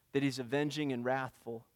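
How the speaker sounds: soft, low and hushed; quiet. Acted. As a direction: say it softly, almost to yourself. Preacher repeats Nahum's words softly.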